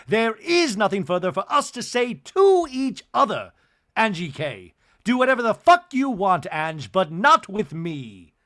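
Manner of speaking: loud, high furious tirade; furious Bronwyn. Retold or imitated. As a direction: tear into her and don't let up.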